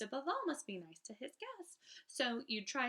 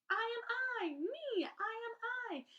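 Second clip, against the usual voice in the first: high, loud, exuberant cry to the sky; joyful shout; 13 semitones higher than usual. Acted. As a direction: shout it proudly upward like a happy child. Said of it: "shout loud at the top of your voice".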